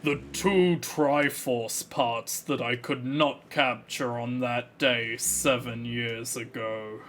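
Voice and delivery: hint of a menacing villain king; lightly voiced evil king, hoarse throat; Ganondorf voice. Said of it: "my ability to do the Ganondorf voice properly".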